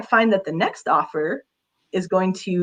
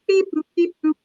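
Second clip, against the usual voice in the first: robot voice. Pretend. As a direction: chirp it out like a toy robot. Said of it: "you kinda have to be a robot".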